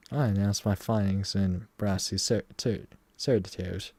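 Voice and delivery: put-on failed British, still a Southern accent. Streamer attempts British for the detective, a Southern accent stuck. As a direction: try for British but stay Southern. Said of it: "Nope, still southern".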